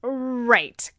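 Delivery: a quick unvoiced right; whispered agreement. Real, not acted. Agreeing with her friend, whispered. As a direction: breathe it conspiratorially.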